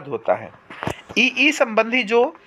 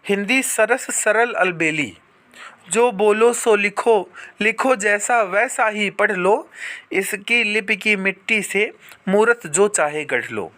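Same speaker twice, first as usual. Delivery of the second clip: slow, measured poem recitation; reciting a Hindi verse slowly; recited verse. Shown as a demonstration. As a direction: recite it like a couplet. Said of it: "किसी ने कहा भी है".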